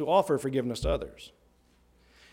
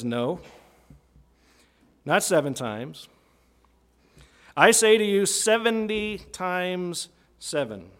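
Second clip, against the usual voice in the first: emphatic Jesus; 4 semitones higher, 3 dB louder than usual. Retold or imitated. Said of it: "And Jesus says".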